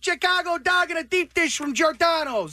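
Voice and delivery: put-on Chicago accent. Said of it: "you're doing a Chicago accent?".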